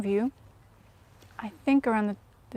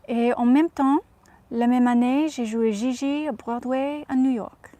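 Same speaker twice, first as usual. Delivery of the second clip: put-on Audrey's French accent; 4 dB louder than usual. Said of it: "speak in her accent in French".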